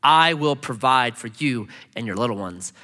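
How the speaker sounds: low, gentle reassurance; kind, comforting. Acted. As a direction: comfort them kindly. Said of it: "he comforted them and spoke kindly to them".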